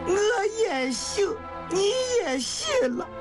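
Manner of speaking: high, wailing tearful plea; crying harder. Acted. Woman pleading with dying man to live, high and weeping. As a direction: beg through heavy crying. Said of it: "香玉哭得更伤心了".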